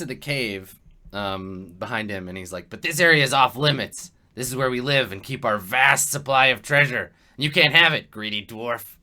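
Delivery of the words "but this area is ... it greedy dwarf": loud goblin warning to a greedy dwarf; territorial goblin. Acted. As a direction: stake your claim loudly, goblin style. Goblin guarding treasure.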